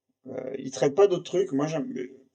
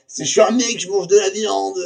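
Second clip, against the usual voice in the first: amused joke; 5 semitones higher, 5 dB louder than usual. Real, not acted. Jokes about being a meat-eating guy.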